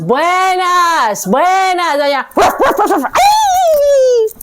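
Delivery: high yapping ruff ruff then a cry; barking dogs and a yelp. Acted. Dogs barking at Death at the gate, yapping then a yelp.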